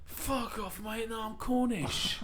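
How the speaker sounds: mock retort. Retorting to Welsh locals.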